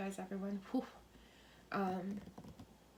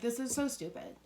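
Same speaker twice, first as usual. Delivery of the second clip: angry vet; 4 semitones higher than usual. Retold or imitated. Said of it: "He's so fucking angry".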